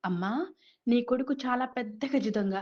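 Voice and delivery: పోలీసుల మెత్తని అరుపు; mild mock shout. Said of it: "గట్టిగా అరిచారు".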